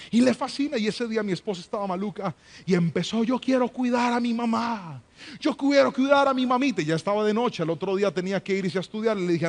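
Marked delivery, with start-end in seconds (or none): 3.3-6.8 lightly voiced little girl, insisting; a touch of childish pleading; daughter insisting. Pastor retelling his daughter begging to stay, light child voice.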